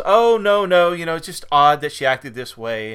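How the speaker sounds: light mock Columbo. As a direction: brush it off like Columbo playing dumb. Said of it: "And he goes".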